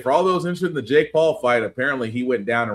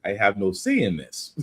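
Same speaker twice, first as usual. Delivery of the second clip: put-on Russian accent; 5 semitones lower than usual. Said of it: "I don't know why I read it in a Russian accent".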